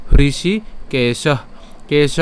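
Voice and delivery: "হৃষিকেশ" slowly, releasing a puff of breath after the final "শ"; visarga breath release. Shown as a demonstration. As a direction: stretch "হৃষিকেশ", ending "কেশ" on an h-like breath. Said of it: "উষ্ম ছাড়তে হবে".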